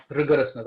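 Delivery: "Rigorousness" repeated alone, deliberate and falling; stress on Rigorousness. Real, not acted. Panelist repeats the key word for emphasis, stressing "Rigorousness". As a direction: set "Rigorousness" apart with a firm falling end. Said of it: "I stress this word again and again".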